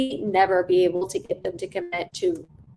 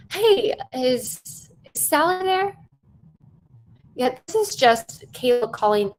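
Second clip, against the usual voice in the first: a rushed, pitched-up first try at the call; rushed sales call. Shown as a demonstration. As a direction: rattle off the pitch like a hurried telemarketer. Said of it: "let me do that one more time".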